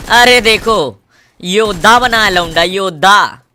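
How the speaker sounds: loud mocking call-out; gleeful loud taunting; excited taunt. Real, not acted. Mocking a player in-game.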